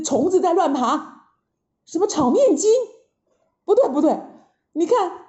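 lightly voiced lively Monkey King; a touch of excited disgust; Monkey King, debunking. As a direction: expose the trick with quick, incredulous bursts.

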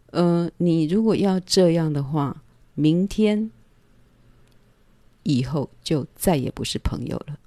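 calm firm warning. Retold or imitated. Warning the man in her bed, calm and firm. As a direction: set the boundary evenly, unhurried. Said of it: "这种事情我是很冷静的".

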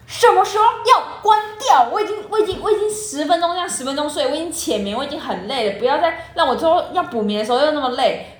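an annoyed sister venting about the snoozing alarm; exasperated complaint. Retold or imitated. Mock exasperation at sister's alarm. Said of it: "我就想说".

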